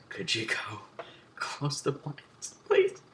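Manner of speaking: slow request leaping to a high please; strained plea. Retold or imitated. Teacher asking another student to close blinds, strained plea. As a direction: imitate a teacher begging, spiking on the last word.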